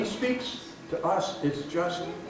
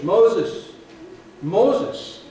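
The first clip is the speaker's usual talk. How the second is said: raised, higher call of a name; 4 semitones higher, 7 dB louder than usual. Acted. God calls Moses from the bush, calling out. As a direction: call the name twice, louder and lifted.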